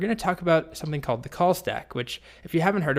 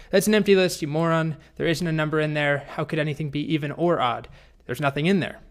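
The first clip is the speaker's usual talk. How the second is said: upset dragon; 3 semitones higher than usual. Acted. Fed-up dragon scolds the boy over an empty list, very upset. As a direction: snap indignantly as a fed-up dragon. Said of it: "the dragon is very upset".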